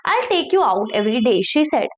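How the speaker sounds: slow, careful read-aloud of a story. Acted. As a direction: read each word slowly for learners. Reading the English story aloud. (धीमी कहानी पढ़ाई)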